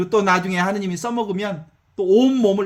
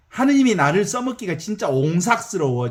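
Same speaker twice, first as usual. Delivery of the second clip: light Jeolla dialect, 옹삭스러워 said the Jeolla way. Shown as a demonstration. Preacher explaining a word, lightly in Jeolla dialect. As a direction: slip into Jeolla speech for 옹삭스러워. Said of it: "전라도 말로".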